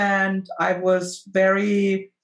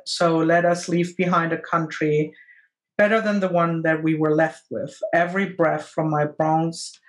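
poem reading. Acted. Reads the end of the poem.

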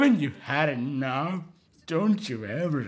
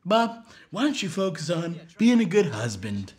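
Richie voice; 4 semitones higher than usual. Retold or imitated. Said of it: "He's like".

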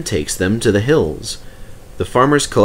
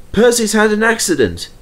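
Toby voice; 12 semitones higher, 4 dB louder than usual. Acted.

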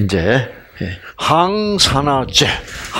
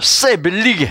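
punchy Gyeongsang dialect expression; light Gyeongsang accent, played for a laugh; 3 semitones higher than usual. Shown as a demonstration. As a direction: relish the funny Gyeongsang phrase. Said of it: "경상도 말이 재밌어요".

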